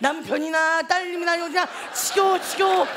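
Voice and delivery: imitating mom's exasperated rant; mock scolding with punchy repeats; 혼내는 엄마. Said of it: "혼내기 시작합니다". (지겨워 죽겠다는 엄마 잔소리 흉내)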